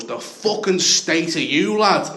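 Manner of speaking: drawn-out insult, rising at the end; mildly heated jeer; mock confrontation. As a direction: imitate a stranger picking a fight. Retold fight with a stranger.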